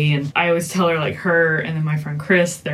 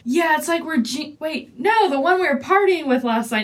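higher, fumbling mock voice; mock Abby Hoffman; 9 semitones higher than usual. Friend acting out the movie scene, higher fumbling voice. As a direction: reach for the name, hamming it up.

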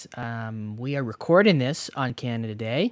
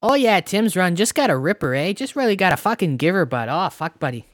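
higher, lively Canadian hoser patter; mock Canadian hoser; 4 semitones higher than usual. Podcaster riffing on a Tim's run, mock Canadian hoser. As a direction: rattle off slang like a Canadian hoser. Hammed-up Canadian slang bit.

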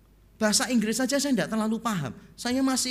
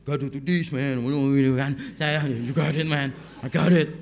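lightly mocked rap-like African American accent, low pitched; 6 semitones lower than usual. Station attendant teaching a foreigner to fuel, African American accent. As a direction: imitate a bassy, rapping African American English. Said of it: "aksennya kalau African American kan ngebos, gede, dan kayak nge-rap".

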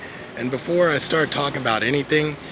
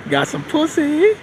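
cheeky brag; 8 semitones higher than usual. Real, not acted. Boastful laughing aside.

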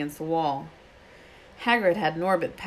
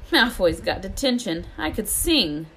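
gleeful; 3 semitones higher than usual. Acted. Hermione gleeful.

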